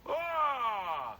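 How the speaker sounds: high, loud, falling yell; open, unforced scream; loosened demo yell. Shown as a demonstration. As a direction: relax and let it out. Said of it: "loosen it up and just".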